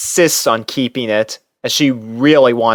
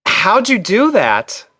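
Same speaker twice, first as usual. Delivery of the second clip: higher, slow, impressed question; curious; 9 semitones higher, slower than usual. A narrator's reading. Narrator asking Twilight, curious and impressed. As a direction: lift the voice in wonder. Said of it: "I ask curiously".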